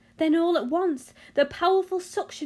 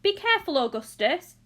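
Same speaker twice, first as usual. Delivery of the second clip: high, raised-voice alarm; shouted warning; 5 semitones higher, 5 dB louder than usual. A narrator's reading. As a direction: call out an anxious warning. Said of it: "shouted Mister Gloop".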